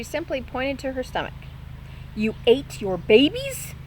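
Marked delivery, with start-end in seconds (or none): 2.1-3.7 slow, louder disbelieving question; shocked bat. Acted. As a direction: drag it out in horror.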